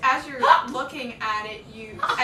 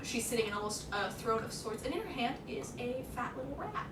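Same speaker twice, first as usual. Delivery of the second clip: measured, softer scene-setting; game master narration; 7 dB quieter than usual. Acted. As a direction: describe the scene quietly, unhurried.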